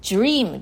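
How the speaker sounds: ドリーム said the English way, close to "jream"; English dream. Shown as a demonstration. Teacher demonstrating English dream to listeners. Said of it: "英語だとドリームですよね".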